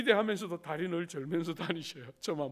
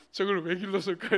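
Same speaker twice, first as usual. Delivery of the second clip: regretful grumble; 6 dB louder than usual. Retold or imitated. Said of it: "막 후회하시고".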